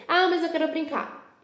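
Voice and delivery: a hint of a sulky child; mock child whine. Child protests giving it back.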